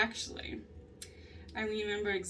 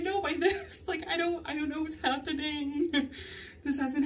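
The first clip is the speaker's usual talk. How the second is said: embarrassed laugh; 6 semitones higher than usual. Retold or imitated.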